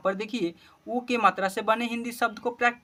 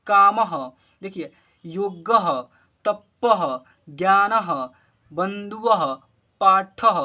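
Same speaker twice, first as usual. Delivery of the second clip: each word called out louder and clear, one by one; loud word-list reading; 4 dB louder, much slower than usual. Shown as a demonstration. Teacher calling out Hindi words to pupils, loud and clear. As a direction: read every word out loud for the class to repeat. Reads visarga words aloud.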